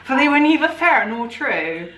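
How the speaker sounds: put-on West Country farmer accent; Gloucester farmer accent. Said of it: "like Gloucester".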